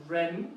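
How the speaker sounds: "Ren" said with a rising second tone; "Ren" rising like a question. Shown as a demonstration. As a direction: lift the pitch through "Ren". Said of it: "there's a rising accent on this tone".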